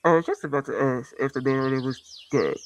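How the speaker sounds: lightly mimicking a poor narrator's delivery; a hint of a badly recorded audiobook narrator. Vlogger showing listeners how the terrible narrator sounded, mildly mocking imitation. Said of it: "This is how she sounded".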